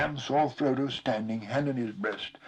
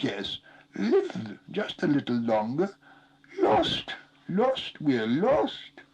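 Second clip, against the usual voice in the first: high whimpering plea; pleading creature voice; 7 semitones higher, 4 dB louder, slower than usual. A narrator's reading. Gollum whimpers to Sam for his life, high and pleading. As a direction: cower and beg for life.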